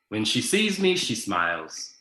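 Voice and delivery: a hint of Irish lilt reading his story; Irish accent. Shown as a demonstration. Author reads his story line in a faint Irish accent. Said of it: "I'm gonna see if I can read it to you in an Irish accent".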